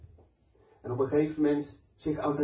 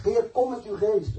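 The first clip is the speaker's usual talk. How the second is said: retold prayer; 8 semitones higher, 4 dB louder than usual. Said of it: "Ik heb aan God gevraagd".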